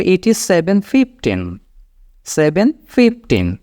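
very slow, careful numbers; slow model phrase. Shown as a demonstration. Teacher models a second time reading, very slowly. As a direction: linger on each number for learners. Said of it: "এইভাবে".

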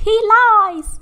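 high, loud urgent warning; seashells warning. Acted. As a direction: cry out the danger sharply. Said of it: "the seashells warned".

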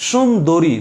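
সুন্দরী said slowly and distinctly, with an o sound after the d; teaching pronunciation. Shown as a demonstration. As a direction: show the learners how সুন্দরী is pronounced, with a clear o after the d. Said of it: "এটা উচ্চারণ". (শিক্ষকের মতো স্পষ্ট করে সুন্দরী উচ্চারণ)

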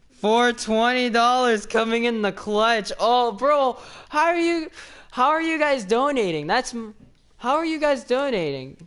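high, loud, thrilled disbelief; can't believe the money just came in; excited surprise. Real, not acted. Streamer reacting to an unexpected twenty dollar donation, high excited.

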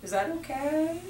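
very high, slow, soft questions; timid pleading. Shown as a demonstration. Trainer mocking a timid referral ask, high and meek. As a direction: beg meekly with rising tone.

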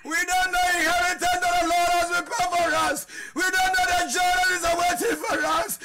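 preaching at full force. Acted. Pastor exhorts the congregation in a fervent preaching shout. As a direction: pour it out to the church.

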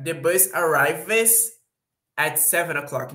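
slow English repeat of the example; slow example read. Shown as a demonstration. Teacher repeating the bus example slowly to students. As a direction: say it again slowly after translating. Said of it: "example repeated after translation".

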